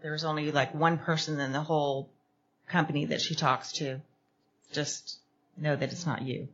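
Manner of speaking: soft, low reassurance; reassuring. Retold or imitated. Calming a hurt new coworker, softly. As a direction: ease her worry quietly. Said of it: "I said".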